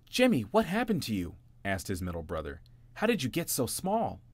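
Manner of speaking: shocked at how small he is; alarmed. Acted. Brother alarmed.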